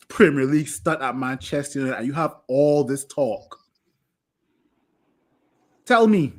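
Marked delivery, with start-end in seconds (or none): 5.9-6.3 angry outburst. Real, not acted. Angry rant at goalkeeper.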